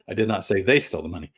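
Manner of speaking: quick line with emphasis on they; briskly, leaning on "they"; stress on THEY. Shown as a demonstration. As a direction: make "they" the key word. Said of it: "So the meaning there is".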